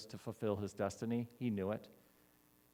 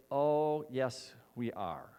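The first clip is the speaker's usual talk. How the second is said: calm firm reply; much slower than usual. Acted. Jesus calmly answering Peter, slow and sure. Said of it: "And Jesus says".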